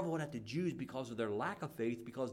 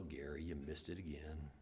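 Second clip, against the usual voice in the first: soft disappointed sigh; 9 semitones lower, 9 dB quieter than usual. Retold or imitated. Jesus voiced disappointed.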